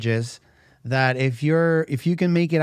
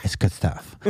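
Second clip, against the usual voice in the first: low unvoiced whisper of good stuff; 8 semitones lower than usual. Shown as a demonstration. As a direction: breathe it out as a whisper. Repeats phrase as a whisper.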